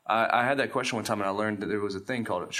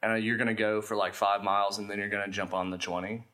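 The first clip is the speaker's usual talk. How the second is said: put-on California accent. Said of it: "a California accent".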